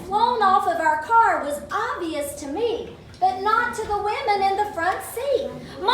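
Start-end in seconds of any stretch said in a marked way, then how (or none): 5.8-5.9 retold scream. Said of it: "I screamed out".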